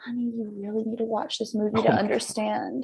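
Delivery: very quiet but intense voice. Retelling what mom said, imitating mom, intense but very quiet. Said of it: "that's how she talked. very intense, but very quiet".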